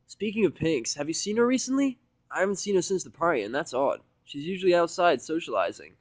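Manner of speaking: a mare asking after a missing friend; Vinyl, concerned. Acted. Vinyl worried about Pinkie.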